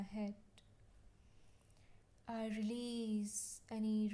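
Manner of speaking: measured, evenly paced affirmation voice; calm guided-meditation delivery, settling at each phrase end. Acted. Leads healing affirmations in meditation.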